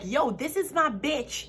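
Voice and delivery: a hint of a proud girlfriend; imitating a girl. Quoting a girl calling her friend her bitch, lightly voiced. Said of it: "a girl is like".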